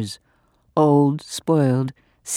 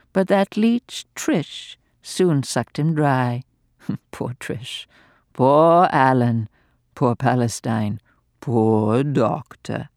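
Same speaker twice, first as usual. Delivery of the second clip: gleeful, venomous dowager mocking the doctor; venomous old lady. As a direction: taunt him with malicious glee. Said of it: "piercing, high-pitched laugh".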